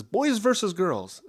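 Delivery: put-on a young girl's reply, lifted high and drawn out; mock innocent high answer; high slow girl voice. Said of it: "she says".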